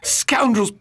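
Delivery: a touch of rage, spitting the insult; bitter anger. Acted. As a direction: curse the thieves. Reacts to the theft.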